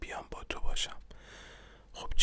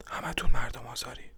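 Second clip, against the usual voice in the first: hushed yell, pushed louder; whispered yell; 9 dB louder than usual. A narrator's reading. Man yelling at callers behind the door, whispered shout. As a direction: yell it under your breath, forcefully.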